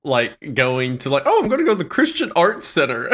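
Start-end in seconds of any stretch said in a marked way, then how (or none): 1.3-3.1 high-pitched, amused imitation of a kid; mock kid voice, much higher; Sunday school kid. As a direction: play an eager child announcing an outing, pitched up. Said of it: "like, a Sunday school kid".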